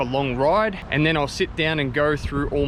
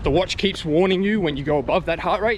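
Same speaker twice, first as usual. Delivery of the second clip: out of breath; 4 semitones higher, 3 dB louder than usual. Real, not acted. Talking mid-run.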